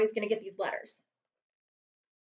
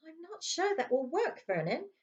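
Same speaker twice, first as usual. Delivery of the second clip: doubtful aunt; 8 semitones higher than usual. Acted. Aunt Petunia doubts Vernon.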